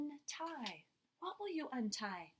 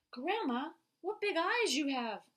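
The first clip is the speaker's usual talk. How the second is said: Red Riding Hood voice; 6 semitones higher, 9 dB louder, slower than usual. Acted. Reading Red Riding Hood's line.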